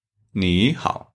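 "你好" with "你" rising as a second tone; "你" rising, "好" dipping; tone sandhi. Shown as a demonstration. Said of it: "Sounds like 你 is second tone".

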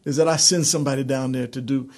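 playing an exasperated God; mock angry God. Preacher imitating an angry God to the congregation, mock exasperated. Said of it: "he said".

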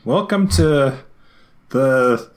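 high, hyped fake announcer voice; fighting game announcer. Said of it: "do a fake announcer voice".

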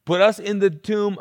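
acted-out anxious group chatter; panicking disciples. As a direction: fret aloud like a rattled disciple. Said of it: "What are the disciples thinking?".

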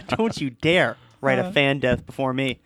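slow, drawn-out mock threat; mock warning. Podcaster teasing a rival fan writer, mock warning. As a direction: warn them off slowly, tongue in cheek.

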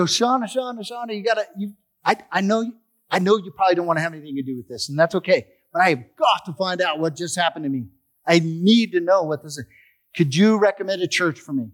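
blurting it all out in a rush; excited rush. Retold or imitated. Husband bursting in to tell his wife, excited. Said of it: "I'm all excited".

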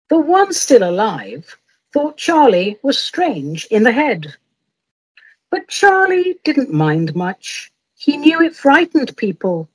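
rhythmic, storytelling poem reading; poem recitation. Acted. Poet reciting to her viewers, gentle storyteller voice. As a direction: read it like a cosy ballad, savouring each rhyme.

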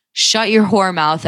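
slow, mildly forceful retold jab; retold verbal attack. Drunk frat dude jumping down her throat, mildly aggressive retelling. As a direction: imitate him jumping down your throat. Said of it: "jumps down my throat".

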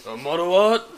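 laughing quote. Retold or imitated. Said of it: "Her mom sound like the Tekken announcer".

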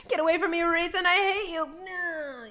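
high, badly faked rejection; play-acting a distressed heroine; Feyre. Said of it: "And she's like".

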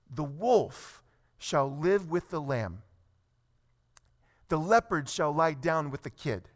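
deliberate reading from the pulpit; scripture reading. Acted. Reads scripture to congregation.

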